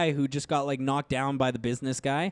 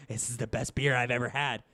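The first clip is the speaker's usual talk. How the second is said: low, soft mock awe; lightly voiced dopey nerd; dopey gushing; 6 semitones lower, 6 dB quieter than usual. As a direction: play a dazed guy over cheap beer. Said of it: "He's like".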